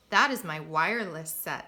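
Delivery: proudly declared, with firm volume; proud announcement. A narrator's reading. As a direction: show it off with pride. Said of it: "announced Brooker proudly".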